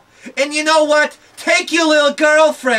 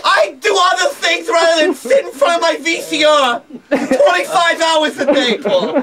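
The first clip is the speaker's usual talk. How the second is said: laughing while yelling; 4 semitones higher than usual. Real, not acted. Laughing angry rant at husband.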